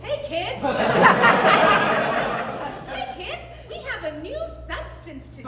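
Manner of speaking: put-on high, cheerful kids' TV puppet; chirpy puppet greeting the kids; Elmo voice.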